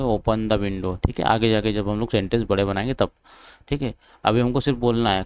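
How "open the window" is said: slow, careful teacher model line; slow model sentence. Shown as a demonstration. Teacher modelling an English sentence for students, slowly spoken. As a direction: spell it out slowly so the class can copy. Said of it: "जैसे विंडो ओपन करना है तो क्या बोलेंगे?".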